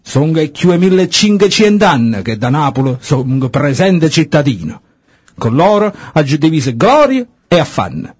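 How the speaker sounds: put-on Neapolitan accent. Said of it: "devi provare in napoletano".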